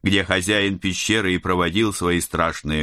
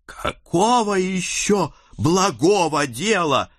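put-on higher, indignant young girl; fiery daughter; 11 semitones higher, slower than usual. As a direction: burst out hotly. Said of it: "не удержалась моя пылкая дочь". (пылкая, возмущённая дочь)

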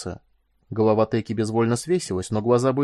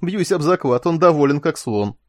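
high, loud tipsy amusement; gleeful, raised voice; giggly glee; 4 semitones higher, 6 dB louder than usual. A narrator's reading. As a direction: gloat merrily, on the edge of giggling. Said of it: "Теки разразился хихиканьем".

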